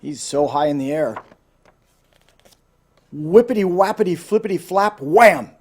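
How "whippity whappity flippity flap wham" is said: tumbling fall. A narrator's reading. Tumbling fall sound words.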